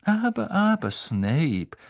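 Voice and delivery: high start, falling away; startled Fudge. A narrator's reading. Minister reins in the professor, startled. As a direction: tut in mild alarm. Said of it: "sagte Fudge aufgeschreckt".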